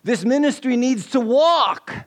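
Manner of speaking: high, forceful charismatic preacher cry; preacher's yell. Acted. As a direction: yell it to rouse the congregation. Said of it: "he yells".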